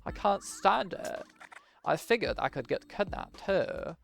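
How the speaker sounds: lightly voiced character longing for drama; bored game character. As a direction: complain about a dull life in a put-on voice.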